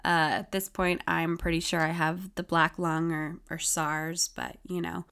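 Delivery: raspy, husky sick voice; talking through a sore, hoarse throat. Real, not acted. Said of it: "it is still here".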